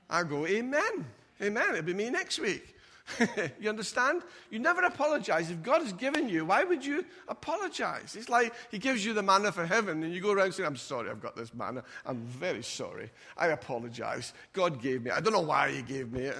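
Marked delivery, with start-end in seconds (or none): 0.5-2.8 higher, eager amens with a chuckle behind. Retold or imitated. Pastor answering the Bentley driver, eager and higher. Pastor's own reply to rich member. 10.7-16.4 grovel, embarrassed by the gift; mock apologetic believer. Mocking a Christian ashamed of God's gift, low and sheepish.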